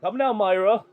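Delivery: a hint of a pompous showman presenting his invitation; mildly hammed-up ringmaster introduction; showman at the gate. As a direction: announce yourself grandly to the doorman. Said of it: "be like".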